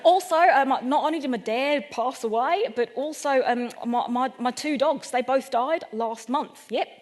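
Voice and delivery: mock Australian builder, breaking into laughs; hammy comic Australian accent. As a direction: tell it in a slipping Australian accent, tickled. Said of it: "in a really clear-cut Australian accent".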